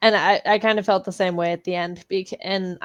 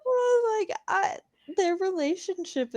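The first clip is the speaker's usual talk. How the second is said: voice breaking; 12 semitones higher, 4 dB quieter than usual. Real, not acted. Tearful over characters' relationship.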